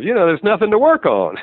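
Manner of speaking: high, lightly mocking lovestruck certainty; a touch of mock bliss; imitating someone in love. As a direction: toss it off like nothing could go wrong. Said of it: "that's the way you feel".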